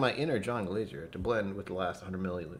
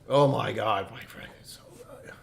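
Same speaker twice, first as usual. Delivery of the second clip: gushing praise; 2 semitones higher, 6 dB louder than usual. Real, not acted. Gushing to a friend, fading out.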